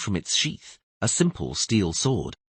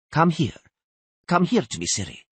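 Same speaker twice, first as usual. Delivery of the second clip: raised, commanding queenly summons; cold and authoritative; 8 semitones higher, 4 dB louder than usual. A narrator's reading. Queen calling her granddaughter to her side, cold and authoritative. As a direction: order the child over, high and firm. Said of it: "in a cold and authoritative voice".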